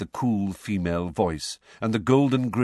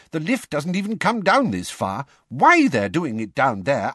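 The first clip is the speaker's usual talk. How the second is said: a touch breathless; 6 semitones higher, 4 dB louder than usual. A narrator's reading. Still running down steps.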